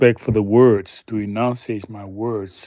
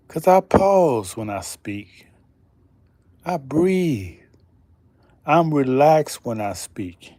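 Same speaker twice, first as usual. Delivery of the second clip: slow and calm; 3 semitones higher than usual. Shown as a demonstration. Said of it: "You see how I speak?".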